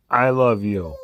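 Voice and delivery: crying I love you; mock crying. Voicing the dog's tearful reply, mock crying. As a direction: say it through a mock sob. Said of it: "Say it clear".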